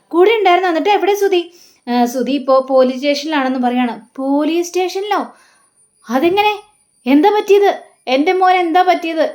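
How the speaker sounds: a father's sudden panic over his son; alarmed father. Retold or imitated.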